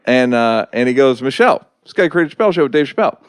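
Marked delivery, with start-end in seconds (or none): 1.2-3.2 quick, higher-pitched hint of Obama calling to his wife; touch of Obama, rattled off fast; Obama impression. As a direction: lightly imitate Obama making an introduction. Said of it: "You did a pretty good Obama".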